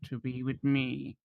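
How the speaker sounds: slow, lightly acted honest trader; protesting shopkeeper. Shopkeeper denies kobold links, mildly protesting innocence. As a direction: protest your honesty in measured words.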